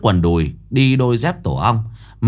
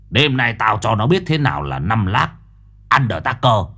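tough guy boast; 3 semitones lower than usual. Acted. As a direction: brag like a street tough.

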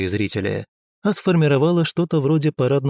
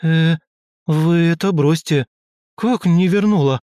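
a touch louder, nervous alarmed question; nervous, frightened; 5 semitones higher, 3 dB louder than usual. A narrator's reading. Tora hears the girl never returns things, mildly alarmed. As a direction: blurt it out, suddenly worried. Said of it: "Нервно и испуганно отреагировала".

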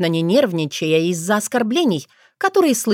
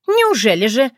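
mocking retort; 5 semitones higher than usual. A narrator's reading. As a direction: toss it back with a sneer.

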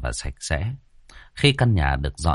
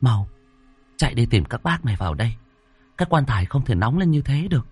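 urging; 5 semitones higher, faster than usual. Acted. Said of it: "Cô Thoan thúc giục".

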